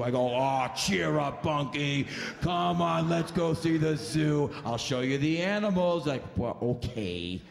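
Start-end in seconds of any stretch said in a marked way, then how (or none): 0.3-6.1 slow, cajoling cheer up; coaxing. Retold or imitated. Comic cheers up the bummed driver, slow and coaxing. 6.4-7.4 slow, lower, reluctant okay; grudging sulk. Retold or imitated. Driver reluctantly agrees to the zoo, slow and low.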